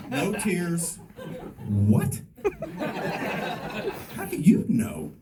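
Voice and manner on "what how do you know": a touch of surprise, pitch lifting on the question; the son's puzzled what, lightly voiced; mild mock surprise. Son asks how dad knew, lightly surprised.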